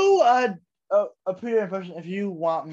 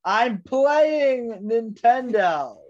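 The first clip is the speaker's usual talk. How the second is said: exasperated; 5 semitones higher, 6 dB louder, slower than usual. Pretend. Slow exasperated reply.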